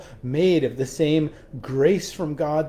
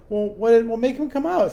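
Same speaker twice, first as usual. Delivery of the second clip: put-on higher, childlike demand; insistent little girl; 8 semitones higher, 3 dB louder than usual. Three-year-old girl tells mom to make turtle come out, high childlike insistence. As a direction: push like a stubborn toddler.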